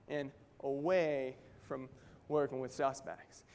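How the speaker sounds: ordinary talk, nothing marked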